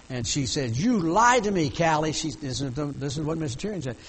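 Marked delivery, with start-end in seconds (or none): 0.7-2.1 imitated hollering. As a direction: holler it like the betrayed mother. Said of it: "she was screaming and hollering".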